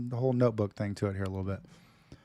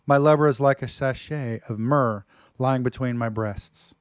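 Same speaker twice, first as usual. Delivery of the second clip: dramatic reading. Acted. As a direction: declaim it like a lover's poem. Reads love poem dramatically.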